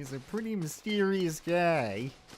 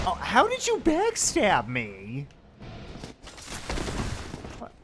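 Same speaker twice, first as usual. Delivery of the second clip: indignant surprise; 6 semitones higher than usual. Real, not acted. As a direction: cry out, betrayed by a sneak attack. Ambushed in game.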